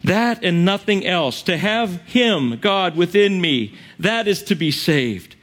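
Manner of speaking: tearfully fervent, easing down to the amen; weepy preaching. Real, not acted. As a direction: preach through real welling emotion. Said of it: "Sorry, I'm so weepy".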